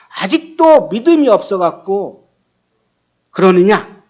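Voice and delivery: mildly acted disappointed scolding; exasperated reproach. Jesus to disciples still lacking faith, exasperated. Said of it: "한심스러운 마음이 들었을 것입니다".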